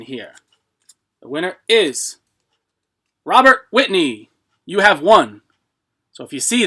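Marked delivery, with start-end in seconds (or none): 1.2-5.4 hyped giveaway announcement. Real, not acted.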